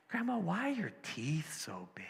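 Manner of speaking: hushed whisper, storybook suspense; whispered question. Acted. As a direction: whisper it like the scary moment of a bedtime tale. Girl asks wolf about teeth.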